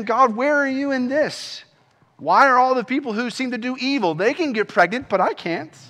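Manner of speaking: acted-out plea for an explanation; questioning God. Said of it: "And you're saying".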